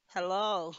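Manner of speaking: mild puzzled hello into the phone; puzzled, unsure anyone is there; a little puzzled. A narrator's reading. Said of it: "A little puzzled".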